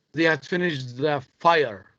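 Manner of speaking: "fire" stressed at the end of the phrase. Shown as a demonstration. Teacher reading to show stressed words, stress on "fire". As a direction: put the weight on the word "fire". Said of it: "underline the words that should be stressed".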